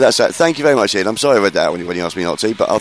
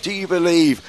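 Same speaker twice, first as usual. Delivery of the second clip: imitating singer; 9 semitones higher than usual. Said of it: "he goes to the next one".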